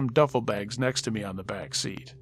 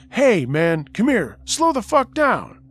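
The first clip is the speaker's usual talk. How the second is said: rising, louder and higher to the end; threatening yell; 8 semitones higher, 8 dB louder, slower than usual. Retold or imitated. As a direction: bark it after a runner who won't stop. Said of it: "I heard them yell".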